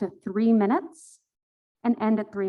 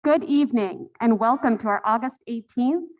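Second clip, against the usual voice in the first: speaking up; 3 dB louder than usual. Real, not acted. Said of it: "I will speak up".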